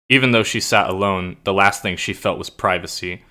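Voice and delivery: measured, lightly read story narration; understated reading of a dark intro. Acted. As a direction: read it like the opening of a novel. Reads her story intro aloud.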